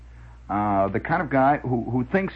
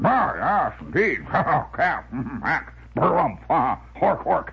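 windbag major voice; 2 semitones higher, slower than usual. Retold or imitated.

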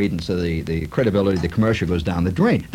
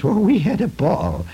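gushing lady; 5 semitones higher than usual. Retold or imitated. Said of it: "there's a lady that says".

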